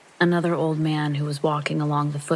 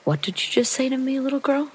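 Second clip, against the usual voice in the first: menacing man in a much higher mock German accent; a rough imitation of a German accent; 9 semitones higher than usual. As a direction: sneer it with a put-on German accent. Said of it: "he says with some accent, maybe German".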